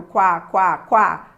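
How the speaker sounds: "quá, quá, quá" loud, each landing hard on the a; weak-to-strong demo. Shown as a demonstration. Teacher proving the diphthong grows, punchy "quá, quá, quá" with weight on the a. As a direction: drum out "quá, quá, quá", u light and a strong. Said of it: "Você não vai do fraco".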